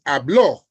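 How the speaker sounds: "hablo" stressed on the final o, ha-BLO; last-syllable stress. Shown as a demonstration. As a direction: punch the end of "hablo". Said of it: "with a written accent mark".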